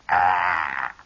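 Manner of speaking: corn ear scream. Retold or imitated. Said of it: "grab another one".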